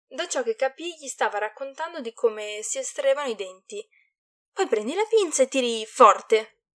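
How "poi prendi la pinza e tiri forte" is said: forceful. Acted. Mother describes pulling teeth.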